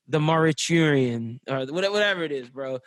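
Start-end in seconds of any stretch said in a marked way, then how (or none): 0.1-1.4 "Mariturian" sounded out slowly; unsure pronunciation. Real, not acted. Reviewer retrying a hard movie title, "Mariturian" guessed slowly. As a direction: have a slow, uncertain go at "Mariturian". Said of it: "I do not know how to pronounce this".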